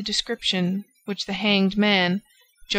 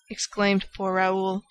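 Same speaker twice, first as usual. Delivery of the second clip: plain reading voice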